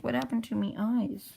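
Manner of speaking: high-pitched cartoon lament; mock distressed character. Acted character alarmed about eyes.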